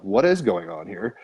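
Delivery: slow, drawn-out puzzled question; perplexed. Retold or imitated. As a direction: retell it with slow, mild bafflement. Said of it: "perplexed as a Gemini".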